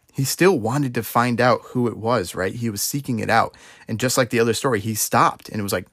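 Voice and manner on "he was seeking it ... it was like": ordinary delivery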